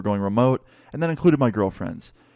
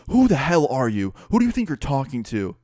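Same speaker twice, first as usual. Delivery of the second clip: mildly raised, indignant challenge; mock angry yelling; 3 semitones higher than usual. Professor challenging the rude intruder, half-hearted angry yelling. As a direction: imitate an indignant professor, lightly. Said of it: "he's yelling at me still".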